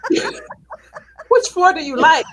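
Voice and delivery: slow, high mock-snotty robot voice; sassy elevator voice. Mocking the AI elevator that gave her attitude, slow sassy drawl. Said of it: "gave me attitude".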